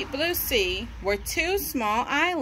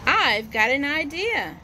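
excited shout; 3 semitones higher than usual. Acted. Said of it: "shouted Jess to George excitedly".

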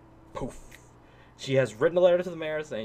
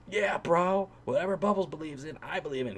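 surfer dude voice; 3 semitones higher than usual. Retold or imitated. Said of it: "has a stupid surfer voice, dude".

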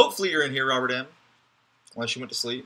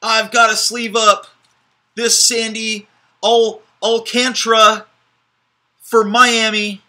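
high, loud squeaky mouse voice; mouse impression; 9 semitones higher, 10 dB louder than usual. Card breaker hyping a pull to viewers, squeaky mouse voice. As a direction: squeal it out like an excited cartoon mouse. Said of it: "that was my mouse impression".

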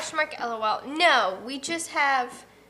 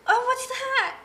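niece startled; 11 semitones higher than usual. Retold or imitated. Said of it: "And she goes".

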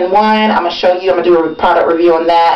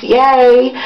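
proud cheer; 5 semitones higher than usual. Real, not acted. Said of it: "made the student of the month".

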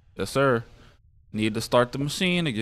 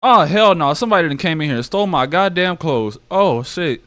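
loud, high indignant rant, fast; real furious outburst; outraged shout; 6 semitones higher, 8 dB louder than usual. Real, not acted. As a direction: blow up at the theft. Finds clothes stolen in game.

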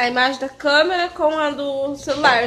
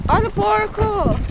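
high, slow call to the animals; sing-song call; 8 semitones higher, slower than usual. Real, not acted. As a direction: stretch it out like calling pigs. Calling out to the pigs.

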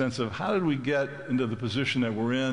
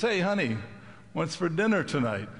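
calling out; 5 semitones higher than usual. Retold or imitated. Husband calling closer.

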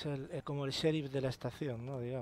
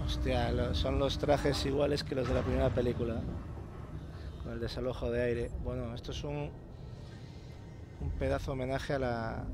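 excited; 6 dB louder than usual. Real, not acted. Spotting the original film suits.

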